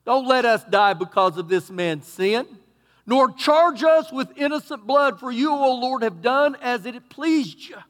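loud, high desperate prayer; mock frantic plea; pleading sailors. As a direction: beg God for their lives. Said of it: "listen what they said to him".

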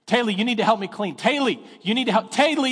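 put-on a boy pestering his sister over and over; imitating a son nagging his sister to help; kid nagging sister. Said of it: "Cade goes".

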